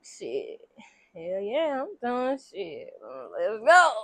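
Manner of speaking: a hushed hammed-up yes to the wife; eager husband. Husband answering the wife's look, low and eager.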